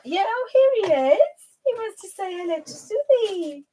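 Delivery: high, lilting coo; cooing pet talk. Real, not acted. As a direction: show off a beloved pet in a high, swooping voice. Showing dog, cooing to viewers.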